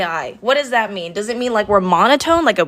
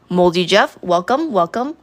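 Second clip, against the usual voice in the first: robot voice. Retold or imitated. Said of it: "make it sound like a robot".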